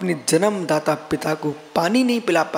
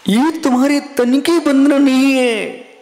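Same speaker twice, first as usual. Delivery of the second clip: ये तुम्हारे तन की वंदना नहीं है proclaimed louder and higher; emphatic proclamation; 8 semitones higher, 6 dB louder than usual. Shown as a demonstration. Devotee addressing a sage, ये तुम्हारे तन की वंदना नहीं है proclaimed louder. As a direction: ring out every word of ये तुम्हारे तन की वंदना नहीं है. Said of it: "repeat said louder".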